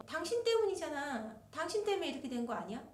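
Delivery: 때문에 stressed, quick rising accusation; blaming accusation. Retold or imitated. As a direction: pin the blame on her, fast. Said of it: "아내분한테는".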